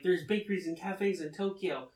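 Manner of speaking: brisk, mildly exasperated retold protest; cutting her off. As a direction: argue the point over someone. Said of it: "Nasa just cuts her off".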